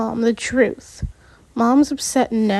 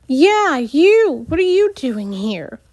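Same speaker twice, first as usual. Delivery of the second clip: confrontational; 3 semitones higher than usual. Acted. Shapri confronts Alex.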